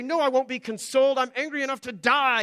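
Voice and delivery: hammed-up refusal to be comforted; mock tantrum. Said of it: "has an outburst and a tantrum".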